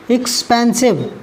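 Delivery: slow एक्सपेंसिव in three beats; three syllables. Shown as a demonstration. Teacher counting syllables, slow एक्सपेंसिव in three parts. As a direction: break एक्सपेंसिव into एक्स, पेन, सिव. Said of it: "तीन syllable का है".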